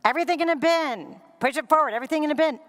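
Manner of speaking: replaying her words. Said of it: "you play the tape back".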